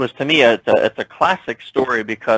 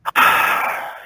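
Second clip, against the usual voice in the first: sad sigh. Retold or imitated. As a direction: breathe out like the day is ruined. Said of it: "show slight sadness and controlling that facial expression and then going".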